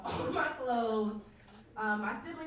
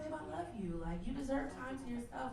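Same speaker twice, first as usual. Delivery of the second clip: softly imitating an unbothered boyfriend; gentle mock-boyfriend reassurance; not upset; 5 dB quieter than usual. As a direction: soothe her, quiet and understanding. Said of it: "He still wasn't upset".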